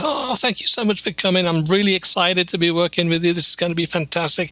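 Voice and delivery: high, bubbly farewell to the couple; gushing goodbye. Retold or imitated. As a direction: gush like a delighted host. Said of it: "everybody gets up and says".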